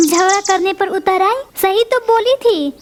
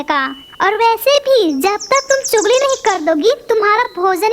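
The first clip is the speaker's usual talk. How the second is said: sharp, indignant retort, pitch a touch raised; flaring up angrily. Acted. Parrot fires back angrily at the gossiping sparrow, indignant. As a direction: snap back at the gossip, offended. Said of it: "किस तरह से मुझ पर भड़क रही है".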